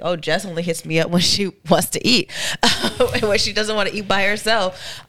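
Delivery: laughing through a mock complaint. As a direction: giggle while quoting a friend. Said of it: "where it's like".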